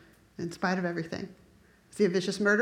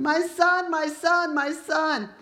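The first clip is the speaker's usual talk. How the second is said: retold wailing; 7 semitones higher, 3 dB louder, much slower than usual. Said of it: "David is wailing and crying for him".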